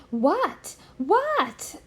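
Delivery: mock-shout it, eager to hear; yell. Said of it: "yells Kitty".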